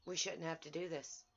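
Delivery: soft and heavy with hurt; sad, quiet. Real, not acted. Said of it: "It's a heartbreaking day".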